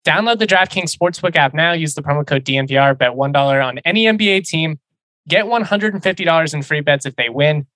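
upbeat sponsor read, bright pitch. Acted. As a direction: sell it like a radio spot. Reads sponsor ad copy.

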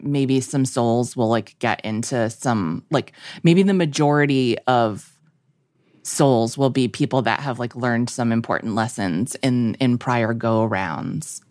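low, spaced-out rambling; stoner. Real, not acted. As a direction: drift through it like you're high. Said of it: "I sound like I'm high on more things than I'm actually high on".

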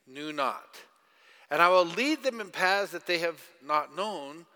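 slow, measured reading of the verses; solemn scripture reading. Acted. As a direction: read the Bible passage with weight and slowness. Reads scripture aloud.

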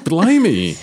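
high, drawn-out prim English voice; posh English accent. Retold or imitated. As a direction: play a prim English mother, slow and lilting. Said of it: "She goes".

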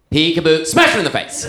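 put-on a kid suddenly lashing out mid-game; hammed-up little boy; bored peekaboo turned hit. Bored boy hits sister.

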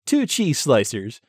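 lightly voiced shopping channel host; chummy on-air product banter; home shopping host.

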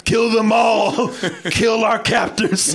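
sinister hamburger command. Pretend. Voicing hamburgers ordering murder.

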